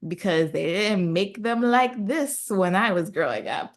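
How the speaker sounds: a hint of sassy grandma, punching some phrases; lightly voiced grandma. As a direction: lightly play grandma urging her granddaughter on. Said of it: "The grandma comes and she's like".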